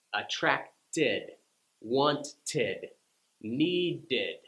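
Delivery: each word ending in a clear id syllable; id examples. Shown as a demonstration. Teacher listing id words for learners. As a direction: say each word with an extra id beat. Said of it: "the extra syllable id".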